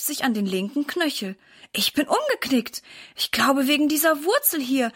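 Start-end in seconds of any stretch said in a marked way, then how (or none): 1.7-4.9 a touch of groaning, higher; lightly voiced mother in pain, moaning; mild moan of pain. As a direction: speak through the ankle pain. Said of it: "stöhnt sie".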